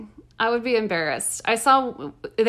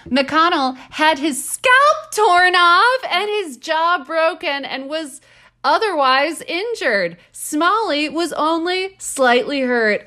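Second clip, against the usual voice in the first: higher, louder, slow hammed-up newsreader; slow, mock-grave vintage news read; old-timey newspaper accent; 7 semitones higher, 4 dB louder, slower than usual. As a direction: drag it out like a dramatic old news crier. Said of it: "your finest old-timey newspaper accent".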